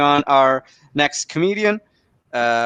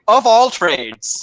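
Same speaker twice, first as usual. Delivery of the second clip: slow, higher, stretched-out delivery; drawn-out punchline; 6 semitones higher, much slower than usual. Acted. Comedian giving scam caller a fake last name, drawn-out punchline. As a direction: draw out each word for the reveal. Gives scammer a silly fake surname.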